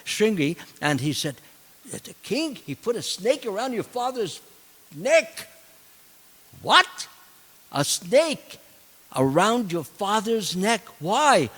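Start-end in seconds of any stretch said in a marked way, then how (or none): 1.9-5.5 high-pitched urgent telling; alarmed report. Retold or imitated. Boys rush to tell the sage's son, alarmed. 6.6-11.5 high, rising stunned questions; can't believe what you hear; shocked disbelief. Retold or imitated. Sage's son reacts to the news, shocked.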